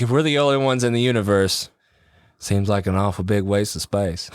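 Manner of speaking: put-on a light Texas accent, laughing at the end; better Matthew McConaughey Texas accent. Second try at the Contact quote, light Texas accent. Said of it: "That was better".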